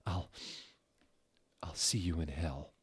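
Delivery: soft, faltering dying mumble; a quiet, broken last goodbye; mumbled. Acted. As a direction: let the words fade out as she dies. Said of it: "I mumbled".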